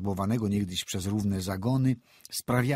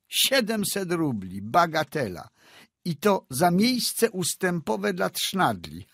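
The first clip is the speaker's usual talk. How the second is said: mocking shrill laugh; 9 semitones higher, 4 dB louder, slower than usual. A narrator's reading. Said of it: "zaczął się śmiać krzykliwie".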